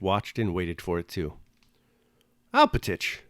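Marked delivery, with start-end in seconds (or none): 2.5-3.2 calling out a name across a crowd, much higher; a sudden high hail from afar. A narrator's reading. Prince hails old servant across the fire, calling out. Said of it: "a familiar voice suddenly hailed".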